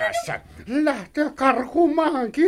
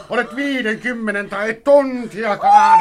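jeering shout; 4 dB louder than usual. Acted. Brother shouting insult.

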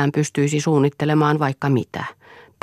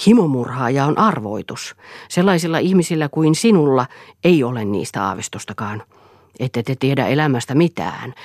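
louder, insistent declaration; lightly voiced defiant Eero; 5 dB louder than usual. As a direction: announce it forcefully, brooking no objection. (hieman korotettu, uhmakas julistus)

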